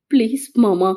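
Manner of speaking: understated dry, weak plea; dry-voiced pleading. Injured Meenal begs her weeping mama, dry-voiced pleading. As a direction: plead gently through a parched throat. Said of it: "வறண்ட குரலில் மன்றாடினாள்".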